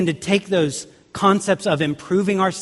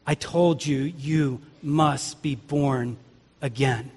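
quietly stern; 4 dB quieter than usual. Acted. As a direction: correct them firmly without raising the voice. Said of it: "but pretty sternly say".

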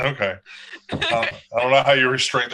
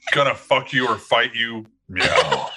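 deep cat voice. Acted. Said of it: "Like, a very deep".

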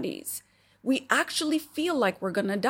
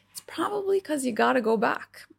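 whisper; 4 semitones higher than usual. Real, not acted. Confiding aside to the viewer.

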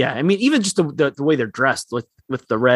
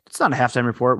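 Andy Levy-esque; 5 semitones lower, faster than usual. Retold or imitated. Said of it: "little Andy Levy-esque".

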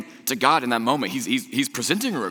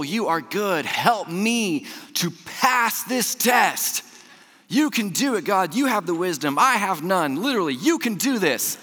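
pleading prayer, pitched higher and rising; begging God to get him through a test; desperate test prayer; 6 semitones higher than usual. Retold or imitated. Student retells begging God before a test, pitched higher. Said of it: "I was like".

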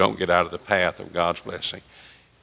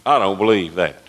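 retold angry retort; 5 dB louder than usual. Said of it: "He got mad".

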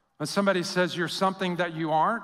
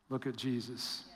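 much softer, hushed answer; 7 semitones lower, 13 dB quieter than usual. Acted. Preacher answering his own question, hushed. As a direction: drop the voice to a hush. Sermon refrain after question.

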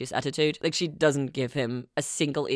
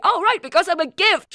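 sarcastic retort; 14 semitones higher, 5 dB louder, faster than usual. Retold or imitated. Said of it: "And then he goes like".

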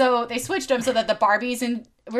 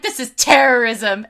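loud mock outrage; alarmed toy expert; 8 dB louder than usual. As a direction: declare it like a scandalized pundit. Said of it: "an expert on toys".

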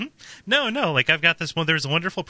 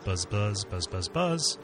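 buzzing like a bee; 4 semitones lower, 6 dB quieter, slower than usual. Pretend. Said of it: "My buzzing has gone unanswered".

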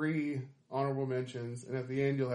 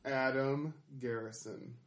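announcer introduction; 5 dB quieter, slower than usual. Real, not acted. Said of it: "you guys just flipped a switch".

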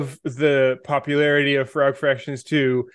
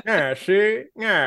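lightly voiced gangster catchphrase, a little higher; cartoon mobster; 4 semitones higher, slower than usual. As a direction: do a playful mobster imitation. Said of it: "like the mobster who always said".

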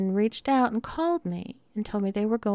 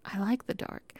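I like the dark said much softer, almost to herself; soft repeat; 7 dB quieter than usual. Real, not acted. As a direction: drop the volume on the repeated I like the dark.

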